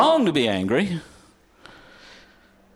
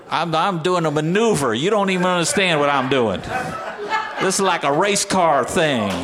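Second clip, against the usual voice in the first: mock bragging driver. Mock boasting about his driving.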